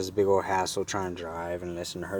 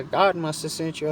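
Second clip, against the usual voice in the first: higher-pitched imitation of her; imitated grateful woman; 9 semitones higher, 4 dB louder than usual. Woman credits God for his help, imitated higher. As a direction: keep her thanks pitched up. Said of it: "And she's like".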